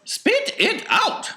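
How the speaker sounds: slow, loud, high command; urgent order. A narrator's reading. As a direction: order her loudly, stretching each word. Wonka orders gum spat out.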